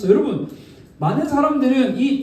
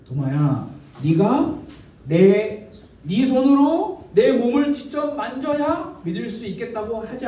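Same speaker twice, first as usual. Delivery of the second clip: encouraging. Acted. Jesus respecting Thomas's doubt, gently encouraging. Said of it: "격려해 주시는 거예요".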